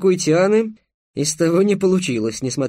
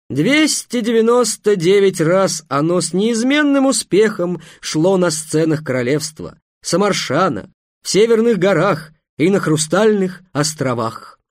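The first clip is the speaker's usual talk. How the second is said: booming circus ringmaster; 3 semitones higher than usual. Acted. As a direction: sell it grandly to the crowd. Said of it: "торжественно сказал". (торжественный голос зазывалы)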